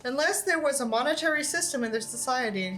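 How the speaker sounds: steady storytelling read; story narration. Acted. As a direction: read the tale to the audience. Reads a horror story aloud.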